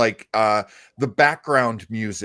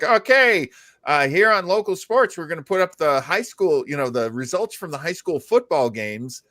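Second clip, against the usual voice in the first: local sports announcer; 3 semitones higher than usual. Retold or imitated. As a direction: ham up the local news sports guy. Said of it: "they'd be like".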